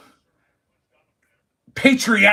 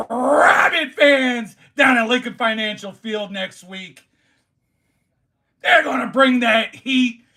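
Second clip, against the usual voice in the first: hype shout. Real, not acted. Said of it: "bringing the heat like this".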